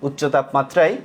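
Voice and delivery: word by word with very long pauses; slow dictation. Shown as a demonstration. Teacher dictates a conclusion to the class, slow dictation. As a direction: dictate slowly, leaving time to write. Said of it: "লিখো যে".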